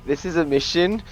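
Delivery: clenched-jaw, tight delivery; through gritted teeth. Acted. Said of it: "I just say through gritted teeth".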